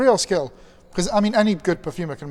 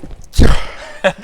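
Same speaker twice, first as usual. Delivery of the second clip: sneeze; 11 dB louder than usual. Real, not acted. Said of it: "I'm sneezing just 'cause".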